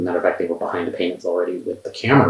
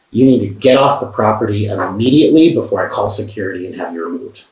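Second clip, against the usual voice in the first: retold angry demand, a touch raised at first; mild mock anger, easing off at the end; imitated angry order; 5 dB louder than usual. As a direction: relay an angry ultimatum with mild force. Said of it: "shaking with anger".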